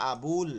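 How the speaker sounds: "আবুল" with the bu held long. Shown as a demonstration. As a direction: stretch the u in "আবুল". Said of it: "মাঝখানে একটা অবশ্যই ওয়াও যোগ হবে".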